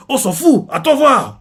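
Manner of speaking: wounded pride, shouting a threat; furious shout. Retold or imitated. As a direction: hurl it at him in rage.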